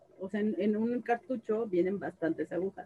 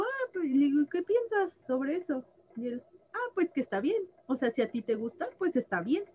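imitating her son; 4 semitones higher than usual.

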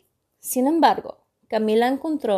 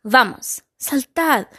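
shouted order; 3 semitones higher, slower than usual. Acted. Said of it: "gritó el pirata Barba Negra".

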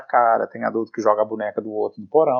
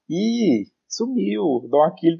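high, lightly voiced fibbing child; imitated child excuse; 5 semitones higher, slower than usual. Host voicing Lila avoiding admitting fear, imitated child excuse. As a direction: retell the girl's excuse in a raised pitch. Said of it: "falou assim".

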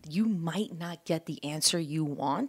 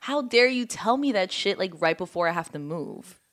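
mock angry boyfriend. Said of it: "he was pissed off at me".

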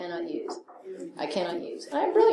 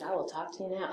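calm sponsor; 3 semitones lower, 15 dB quieter than usual. Retold or imitated. Sponsor answers calmly.

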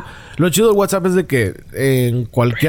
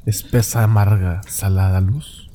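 lower, hammed-up announcer build-up; mock grand announcer; 3 semitones lower than usual. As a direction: introduce the guest like a cheesy radio host. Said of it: "la voz que rascaricia".

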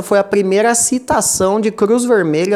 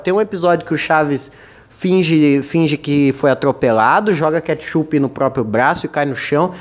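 usual speaking voice

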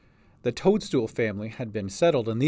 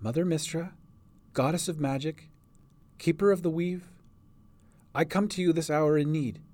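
higher-pitched, hushed plea to a goddess; measured, reverent prayer with pauses; 4 semitones higher than usual. A narrator's reading. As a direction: pray earnestly for guidance. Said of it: "began to pray".

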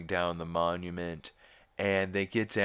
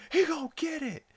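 much higher mock forecaster shout; imitating Ollie; faster than usual. Retelling the forecast, mimics Ollie Williams in a high yell. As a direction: bark it out like the weatherman. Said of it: "he's like".

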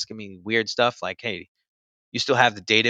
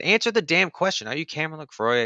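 higher-pitched, insistent questioning; mock an agent pressing for an answer; retold impatient demand; 6 semitones higher than usual.

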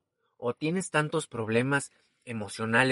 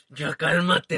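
mock calming; 4 semitones higher, 8 dB louder, much slower than usual. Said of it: "soy muy explosivo".

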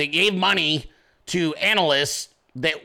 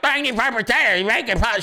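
much higher mocking TV-host voice; Hannity impression; 5 semitones higher than usual. Host mocks a TV pundit's talking points, high mock voice. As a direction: parody the pundit, pitch way up. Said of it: "He's like".

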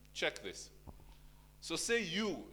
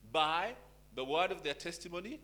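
quoting scripture; 3 semitones higher, 5 dB louder than usual. Acted. Pastor reading Revelation to the church, declaiming. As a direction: proclaim the verse with weight. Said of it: "And he said".

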